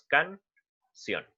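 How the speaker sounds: can, sion broken into two separate syllables with a pause between; split into syllables. Shown as a demonstration. Teacher splitting a word for students, syllable by syllable. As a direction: pull the word apart syllable by syllable. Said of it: "como tenemos dos grupos de vocales".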